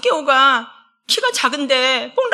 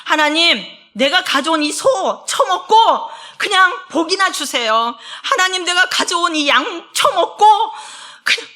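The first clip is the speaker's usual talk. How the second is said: hammed-up pushy believer; mock boastful offerer; 4 semitones higher than usual. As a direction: sneer it like a smug worshipper demanding blessing. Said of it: "자기가 드리면서 생색내는 거죠".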